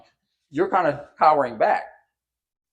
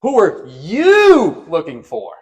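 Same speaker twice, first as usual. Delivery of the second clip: mock challenge; 3 semitones higher, 8 dB louder, slower than usual. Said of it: "he's like".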